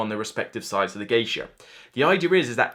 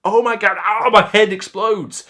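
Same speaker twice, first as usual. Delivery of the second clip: mock overwhelm; 7 semitones higher, 8 dB louder than usual. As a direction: ham up a brain melting. Mock overwhelm at game's choices.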